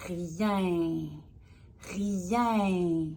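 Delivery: "Rien" spoken slowly, the ending drawn out; word demo. Shown as a demonstration. Teacher lets the child hear the word's ending, slow and clear. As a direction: let "Rien" ring to its nasal end. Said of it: "écoute-le dans tes oreilles".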